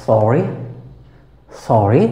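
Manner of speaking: সরি with the R sounded; R pronounced in সরি. Shown as a demonstration. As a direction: sound the R before the final vowel in সরি. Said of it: "আর এর পরে semi vowel Y আছে".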